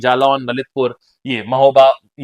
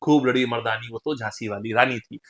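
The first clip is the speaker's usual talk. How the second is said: low, softer verse; poem recitation; 5 semitones lower, 7 dB quieter than usual. Shown as a demonstration. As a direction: recite it low, in steady metre. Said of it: "इस poem से". (धीमे स्वर में कविता पाठ)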